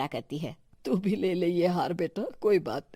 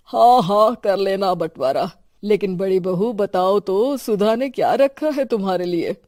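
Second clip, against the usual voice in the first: loud exasperated; 7 dB louder than usual. Acted. Father-in-law exasperated with bickering.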